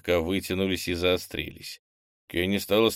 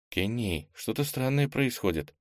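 alarmed; 4 semitones higher, 4 dB quieter than usual. Acted. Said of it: "вдруг встревожилась Ира".

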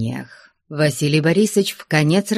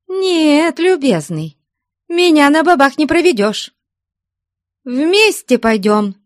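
high, loud suspicious jab; jealous accusation; 12 semitones higher, 4 dB louder than usual. Acted. Jealous woman suspecting a rival, accusing. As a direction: hurl the accusation at him.

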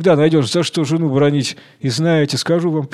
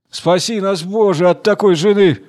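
exclamation; 4 semitones higher than usual. Acted. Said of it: "вскричал трактирщик".

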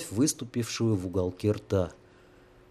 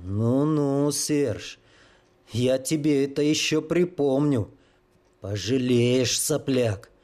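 through gritted teeth; 2 semitones higher, slower than usual. Acted. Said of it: "процедил он сквозь зубы".

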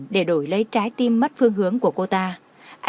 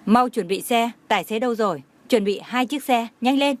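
mild raised urgent call, rising at the end; urgent shout. Acted. Hàn Lạp orders cars for the wounded, mildly shouted urgency. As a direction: bark orders for the cars, only lightly raised. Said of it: "Hàn Lạp lập tức hét lên".

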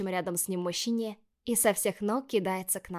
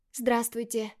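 timid smile; 3 semitones higher, slower than usual. Acted. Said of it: "С робкой улыбкой".

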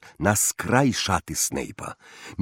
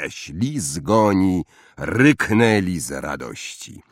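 ordinary delivery, nothing marked

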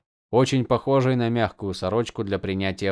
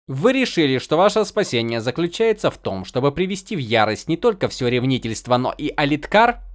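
slight surprise; 4 semitones higher, 3 dB louder than usual. A narrator's reading. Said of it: "в её голосе сквозило лёгкое удивление".

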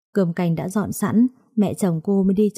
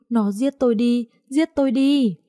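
high, despairing mother's cry, not shouted; acted wailing; 5 semitones higher than usual. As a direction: wail it higher and higher in mock despair. Mother wails over son's gambling debt. (than khóc, giọng cao dần)

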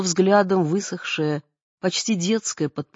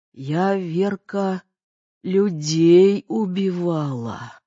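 put-on slow, weak, bitter old woman; frail dying mother; 4 semitones lower, slower than usual. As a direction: confess slowly, drained.

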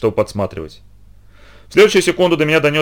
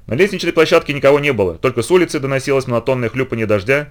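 ordinary delivery

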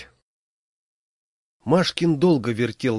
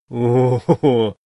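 long, slow, loud drawn-out groan; hammed-up slow groan of despair; 7 dB louder, much slower than usual. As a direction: let out a loud, slow stagey moan. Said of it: "застонал я".

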